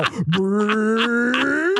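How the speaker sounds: lips flapping in a sputtering rumble; a rising angry sputter; sputtering brrr noise. Retold or imitated. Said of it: "his face is gonna go".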